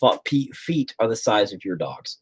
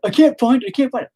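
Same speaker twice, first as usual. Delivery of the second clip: put-on much higher, whining kid voice; whiny kids; 13 semitones higher, 4 dB louder, faster than usual. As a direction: whine it like a helpless kid. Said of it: "they're like".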